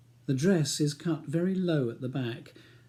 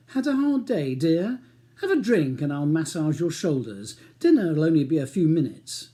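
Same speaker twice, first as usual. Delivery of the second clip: mock-sweet, dripping sarcasm; heavy irony; 3 semitones higher, 5 dB louder than usual. Husband mocking his wife's hard day, ironic. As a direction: parrot her complaint back with heavy irony. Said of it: "says Charles with heavy irony".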